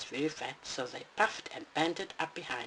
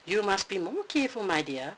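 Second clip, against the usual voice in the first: booming Papa Bear; 3 semitones higher than usual. Acted. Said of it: "boomed Papa to his wife".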